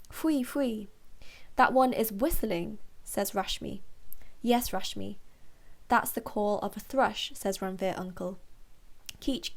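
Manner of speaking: measured storybook narration with gentle lifts; careful, clearly phrased picture-book reading; story read-aloud. A narrator's reading. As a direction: read it to children, pausing between sentences.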